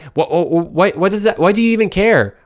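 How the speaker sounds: mock argument. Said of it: "whenever we're arguing".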